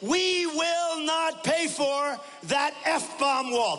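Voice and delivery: very slow, high, stretched-out furious mimicry; imitating Fox dropping the F-bomb on live television; mock cursing Vicente Fox. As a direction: drag it out like an outraged Fox swearing on TV. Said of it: "But he said it differently".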